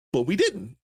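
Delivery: high, giggling retort; grinning through laughter; laughing reply. Retold or imitated. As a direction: laugh it off cheekily. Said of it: "I'm dying laughing".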